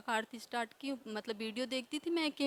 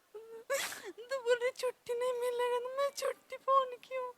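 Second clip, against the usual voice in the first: crying; 10 semitones higher than usual. Real, not acted. Still weeping while retelling events.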